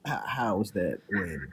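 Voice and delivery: like a hand over the mouth; muffled, slow, as through a covered mic. Real, not acted. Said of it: "your mic's a little muffled".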